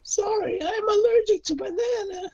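loud, hammed-up cartoon voice; bad anime voice acting, loud and whiny; distracting put-on voice. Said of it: "distract them with my voice".

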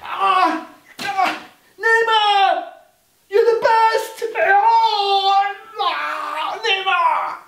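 high-pitched, drawn-out fan screams; ecstatic fan cheer. Acted. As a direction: cheer wildly like an adoring fan. Acted fan cheering for Neymar.

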